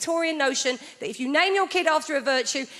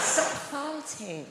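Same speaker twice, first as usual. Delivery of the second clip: mock scold; 3 semitones higher, 5 dB quieter, much slower than usual. Parent scolding child Grace.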